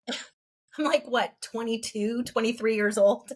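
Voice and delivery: laughing at himself while recalling his age; a real chuckle through the words, slowing down. Real, not acted. Laughing as he tells a friend how old he was. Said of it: "I'm laughing because".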